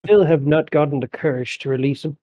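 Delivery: put-on old man voice. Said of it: "And I'll be like".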